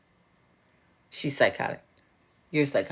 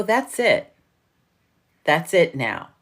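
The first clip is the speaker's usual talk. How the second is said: emphatic retold declaration; 3 semitones higher, 6 dB louder than usual. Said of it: "I go".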